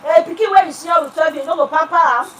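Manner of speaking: quick Nigerian Pidgin phrase. Real, not acted. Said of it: "I'm speaking pidgin".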